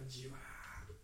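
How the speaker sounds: drawn-out, level じわー; slow seeping. Shown as a demonstration. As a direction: stretch じわー like water slowly seeping in. Slow seeping acted out in sound. (じわーとゆっくり伸ばして)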